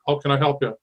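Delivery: ordinary delivery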